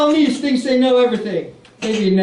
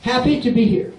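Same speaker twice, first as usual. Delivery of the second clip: plain. Pretend. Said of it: "my impression of Robert De Niro".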